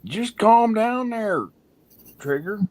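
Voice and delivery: high, slow mock soothing; slow teasing calm-down. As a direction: stretch it out teasingly. Teasing someone excited.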